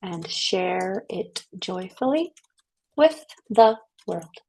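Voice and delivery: very slow, measured mantra reading with pauses; mantra recitation. Shown as a demonstration. Voice teacher reading her new mantra to the class, slow recitation. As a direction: let each line stand alone, drawn out.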